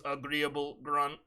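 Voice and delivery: slow, lightly robotic placeholder read; deadpan computer readout, drawn out slowly; text-to-speech voice. Retold or imitated. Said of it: "text-to-speech voice that's a placeholder".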